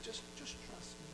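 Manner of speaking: high, hushed reassurance; calm them with a soft hush; soothing God. Acted. God answering a worried believer, hushed reassurance.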